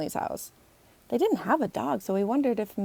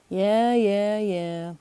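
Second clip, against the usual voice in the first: put-on louder, brushing-off girl voice; dismissive yeahs; 4 dB louder, much slower than usual. Emily brushes off Logan's trial-basis talk. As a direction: wave him off.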